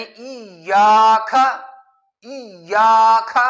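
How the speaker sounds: ایاک ending in a puffed kh, slow and loud; aspirated kaf. Shown as a demonstration. Teacher demonstrates the aspirated kaf mistake, slowly. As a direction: breathe out hard on the final k of ایاک. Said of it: "کھا پڑھنا ٹھیک نہیں".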